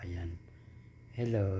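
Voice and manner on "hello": distant, softer hello; far from the phone. Shown as a demonstration. Testing the phone from far away, distant hello. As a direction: say it away from the mic. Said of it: "Medyo ilalayo ko, magsasalita ako".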